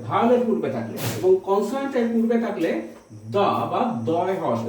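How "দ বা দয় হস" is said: দ with a short open vowel, said slowly and lower; article pronunciation demo. Shown as a demonstration. Teacher showing the article before consonants, slow, low দ. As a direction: give দ its short sound, deliberately. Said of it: "এইরকম উচ্চারণ হবে".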